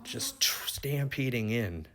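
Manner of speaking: slow, breathy whisper of awe; hushed whisper. Retold or imitated. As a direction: breathe it out as if the herd is right there. Stampede of wildebeest rushing in.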